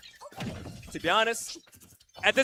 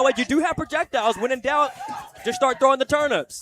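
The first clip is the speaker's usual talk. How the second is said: excited; 4 semitones higher, 5 dB louder than usual. Real, not acted. Caster urging a player on.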